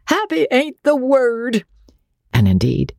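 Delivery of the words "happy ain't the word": high, jovial quip; hearty captain. A narrator's reading. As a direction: toss it off jovially. Andy's hearty reply.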